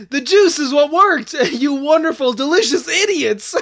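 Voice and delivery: laughing. Acted. Villain gloating, laughing.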